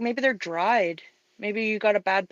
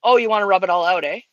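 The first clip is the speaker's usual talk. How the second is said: Canadian; 5 dB louder, faster than usual. Real, not acted. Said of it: "that was automatic ... absolutely Canadian response".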